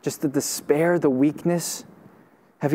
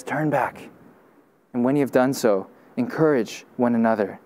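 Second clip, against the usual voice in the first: quiet tender call; 5 semitones lower than usual. Retold or imitated. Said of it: "Jesus says".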